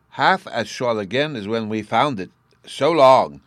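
put-on high, eager child voice; little boy Bruno. A narrator's reading. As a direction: chatter like an excited small boy.

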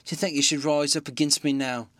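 put-on a distraught old landlady. Mrs Hall's frightened rant.

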